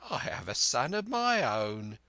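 put-on sly old pirate. Black Dog voiced in story.

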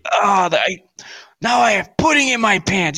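hammed-up pudding panic; mock flustered Farley. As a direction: squeal it out like a panicked big guy. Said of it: "He's like".

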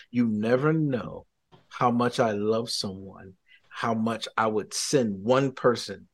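solemn loving message; God's tender words. Retold or imitated. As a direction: speak slowly, letting each phrase settle.

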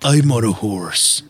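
low, slow ad-man voice; slow it down like the Old Spice man. Acted. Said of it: "maybe he could be on a horse".

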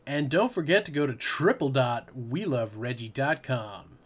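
lightly voiced nineties web plug; nineties e-commerce ad. Host trying a nineties website plug, lightly put-on ad voice. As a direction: plug it like an old dot-com ad. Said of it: "let me try, like, a nineties ass, uh, e-commerce way".

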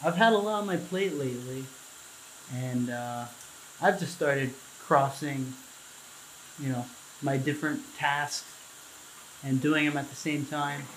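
echoey bathroom voice; speaking under running water; talking in the shower. Real, not acted. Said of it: "It probably sounds like I'm in the shower".

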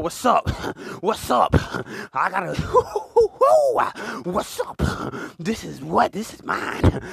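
put-on confronting girl. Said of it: "You tell that girl".

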